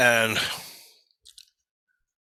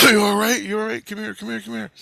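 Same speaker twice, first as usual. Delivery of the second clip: friends calling over; 9 semitones higher, 3 dB louder than usual. Retold or imitated. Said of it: "they go".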